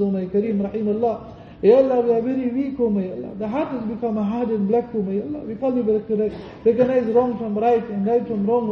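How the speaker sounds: fervent prayer building in intensity; pleading dua. Acted. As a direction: beg Allah for the congregation, rising with each plea. Leads English supplication.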